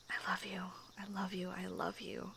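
soft, quiet, murmured I love you; tender hushed repetition; repeated whisper. Acted. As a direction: whisper it again and again.

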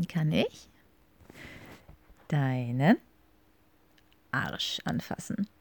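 each word spaced with pauses, slow. Shown as a demonstration. Repeating the German for her partner: slow, word by word. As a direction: spell it out word by word. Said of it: "but slower".

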